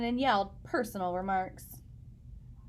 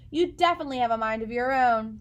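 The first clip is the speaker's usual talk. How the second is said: mother's voice; 6 dB louder, faster than usual. Acted. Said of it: "said Chester's mother".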